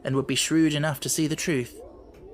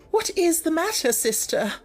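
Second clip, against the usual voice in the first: much higher startled sister; alarmed cry. Acted. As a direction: blurt it out in alarm. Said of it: "she ejaculated".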